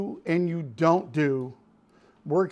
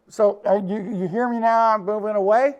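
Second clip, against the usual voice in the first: hands cupped at face. Shown as a demonstration. Instructor showing viewers what ugly midrange sounds like, voice through cupped hands. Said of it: "put 'em up by your face, and do this".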